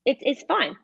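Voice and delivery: put-on casual, unbothered retelling of a kid; offhand, no-big-deal quote; nonchalant. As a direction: shrug it off lightly, imitating a child. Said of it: "he just said it so nonchalant".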